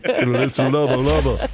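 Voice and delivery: a hint of a reggae singer on the line; reggae-singer Jamaican. Host joking that accents drift into a reggae singer's voice, mild Jamaican. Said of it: "Then you turn into a reggae singer".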